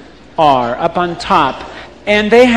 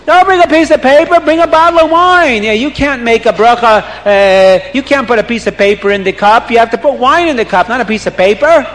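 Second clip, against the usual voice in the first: shouting; 3 semitones higher than usual. Acted. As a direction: yell at him impatiently. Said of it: "People start screaming".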